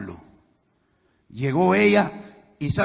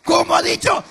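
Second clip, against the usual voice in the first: stunned shout; 13 semitones higher, 9 dB louder than usual. Retold or imitated. Stunned husband shouts back.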